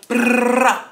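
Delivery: loud rolled-R burst, pitched high; imitated gunfire. Explaining the magazine lyric, loud gunfire trill. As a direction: fire off a trilled gun noise.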